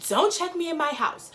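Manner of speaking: high, sassy quoted snap; mock sassy clapback. Recapping Candace telling Ashley off, high and sassy. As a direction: throw the line back with attitude.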